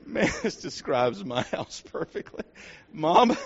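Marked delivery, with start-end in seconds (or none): 2.9-3.4 put-on higher, light child's call; small boy calling his mother from bed.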